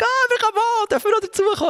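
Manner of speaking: very high, bright asking voice; eager crowd voice. Acted. The crowd of thousands asks to join, high and eager. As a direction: chirp it like the arriving crowd.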